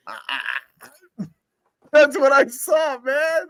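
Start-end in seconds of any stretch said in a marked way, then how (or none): 1.9-3.5 higher, louder, slower insistence; emphatic shout. Real, not acted. Defending his account of the fight: a real, emphatic shout. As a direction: shout it as if nobody believes you.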